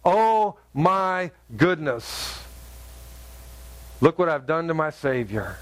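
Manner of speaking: slow, drawn-out dismayed realization; understated, weighty regret; acted repentance. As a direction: voice a penitent's remorse, word by word. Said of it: "when he repented, it was a true repentance".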